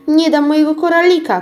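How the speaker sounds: high, loud refusing cry; shout. A narrator's reading. Girl shouting at the witch over her bead, loud and high. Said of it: "krzyknęła wtedy Karolcia".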